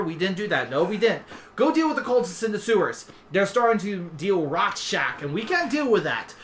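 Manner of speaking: chattering heads, high bursts dropping to quick asides; rambling two-headed dragon. Acted. Two-headed king offers Black Cats a job, lightly voiced rambling chatter. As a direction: talk over yourself, eagerly agreeing and correcting.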